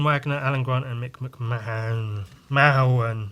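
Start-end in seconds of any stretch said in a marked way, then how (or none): 2.5-3.3 "Mahon" as MA-un, first vowel open; trying a pronunciation. Real, not acted. Unsure reader sounding out the artist's surname, "Mahon" as MA-un. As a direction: say "Mahon" with an open "ah" and weak ending.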